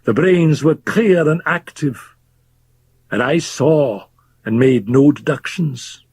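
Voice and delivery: lightly voiced drunk, brooding aloud; a hint of the bitter old doctor; drunken old Fettes. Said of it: "Fettes continues his rant".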